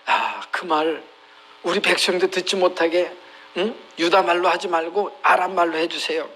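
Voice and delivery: understated imitation of begging; lightly coax, as a servile official; mild pleading. Hezekiah's officials beg the envoy to switch languages, mildly pleading. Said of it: "삭삭 빌었을 거예요".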